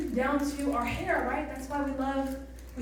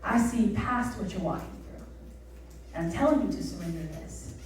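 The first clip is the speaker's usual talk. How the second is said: voice of God; 5 semitones lower, 6 dB quieter than usual. Retold or imitated. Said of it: "And God's like".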